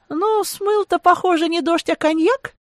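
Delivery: high-pitched teasing retort; amused scoff. A narrator's reading. Woman mocking the tipsy man's poetry, amused scoff. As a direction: scoff lightly, pitched well up. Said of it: "хмыкнула я".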